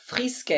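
Frisque with a French throat R; French pronunciation. Shown as a demonstration. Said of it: "What are you trying to say about my language".

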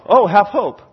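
glib, lifted self-talk; mocking pep talk; mock easy encouragement. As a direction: toss it off as if it were easy. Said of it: "Like it was that easy".

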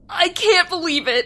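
loud, fast thrilled outburst; excited shout. Acted. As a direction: burst out in disbelief.

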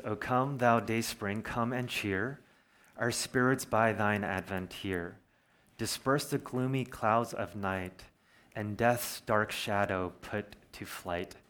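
slow, reverent reading of a hymn text; slow reverent recitation; hymn verse reading. Acted. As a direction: savour each line of the old hymn. Reads hymn verse slowly.

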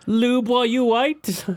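high, loud, drawn-out character impression; slow, high, loud silly voice; put-on cartoon voice. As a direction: belt it out slowly as a cartoon bit part. Quoting a cartoon character's line.

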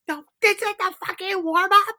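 high, incredulous protest; outraged, as if it can't be true; mock horrified, pitched high; exasperated disbelief. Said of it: "I'm like".

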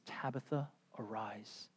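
soft, hushed call to rise; quiet command. Retold or imitated. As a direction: speak it gently over the body. Peter quietly raising Tabitha.

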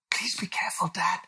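put-on high, anxious child voice; cautioning little William. A narrator's reading. William warns dad looking under the bed, cautioning child voice. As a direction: warn like a worried small boy. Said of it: "cautioned William".

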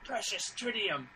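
soft, hushed crowd whisper; stage whisper. Retold or imitated. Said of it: "somebody in the crowd stage whispers".

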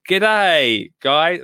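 a hammed-up bad Australian accent; a cheery, overdone Australian accent. Host says hello to Australian fans in a mock Australian accent. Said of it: "after I destroy their accent".

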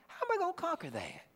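mock fearful believer staring at the enemy; panicked doubter. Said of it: "That's what you and I say".

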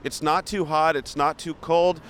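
leisurely host narration, each phrase drawn out; tour host commentary. Pretend. Host describing the busy Beverly Hills street for viewers, presenter commentary.

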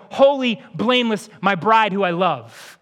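a slightly lifted, loving declaration; tender, adoring. Pretend. Jesus answering the critics, lovingly naming his bride. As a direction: say it like a groom about his bride. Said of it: "No, he's going".

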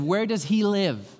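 slow, lightly voiced stern father; a hint of a dad ready to confront. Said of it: "My dad came down the stairs and said".

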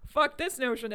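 loud, high outburst breaking into laughter; hammed-up, laughing disgust; exasperated outburst. Acted reaction to some movies.

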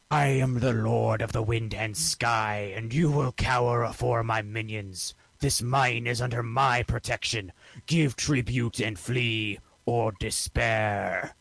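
intimidating. Acted. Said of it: "in the most intimidating voice that I can muster".

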